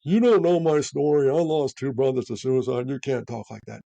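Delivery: mock a self-righteous comeback; imitating an indignant rebuke; defensive retort. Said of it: "I don't get all woke on 'em".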